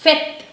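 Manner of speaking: fête as short "fet", open vowel; fête in one syllable, final t sounded; French pronunciation. Shown as a demonstration. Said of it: "This is the sound A".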